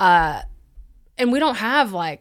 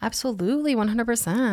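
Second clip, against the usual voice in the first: exaggerated cartoon intonation; 3 semitones higher than usual. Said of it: "Why are you talking like that".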